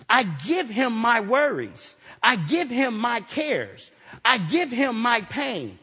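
slow, measured "I give him" list; slow litany. Real, not acted. Preacher handing his burdens to God, slow and measured. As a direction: lay down each line slowly over the organ.

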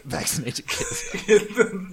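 laughing through the words; cracking up mid-line. Real, not acted. Laughing through repeated punchline.

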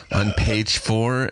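slow, drawn-out mock executive; annoying network executive. Executive pointing writers to the page, annoyingly slow. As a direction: repeat it at a maddeningly slow pace. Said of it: "as annoying as possible because of her job".

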